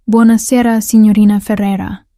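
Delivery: put-on Italian accent. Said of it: "textured with an Italian accent".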